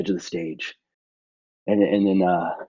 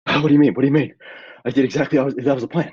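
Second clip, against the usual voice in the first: confused protest; 4 semitones higher, faster than usual. Acted.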